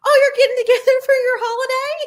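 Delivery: fast, high tease through laughter; laughing tease. Retold or imitated. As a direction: laugh while teasing. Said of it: "I was like".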